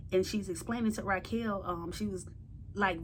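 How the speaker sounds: ordinary talk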